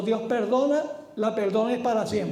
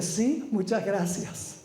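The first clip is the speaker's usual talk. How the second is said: smiling thanks; 3 semitones lower, 4 dB quieter, slower than usual. Acted. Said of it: "con una sonrisa así".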